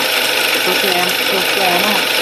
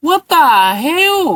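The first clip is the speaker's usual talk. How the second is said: shocked exclamation; 9 semitones higher, much slower than usual. Real, not acted. Shocked at zombie groom.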